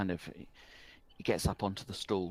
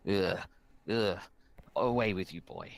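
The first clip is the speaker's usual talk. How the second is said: lightly voiced goblin, sneering and louder; 4 dB louder than usual. Wizened goblin sneers the boy away from the bar. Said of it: "sneers and goes".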